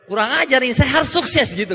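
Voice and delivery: indignant, determined outburst; retold fired-up resolve. Speaker resolving to beat the mumbler, retold fiery eagerness. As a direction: vow success as if provoked. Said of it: "Saya kayak semangat sekali mau sukses gitu".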